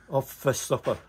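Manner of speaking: "Off fist upper" in his own Scottish accent at normal speed; plain Scottish "Off fist upper". Shown as a demonstration. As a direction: say "Off fist upper" quickly in broad Scots. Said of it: "It's a Scottish accent".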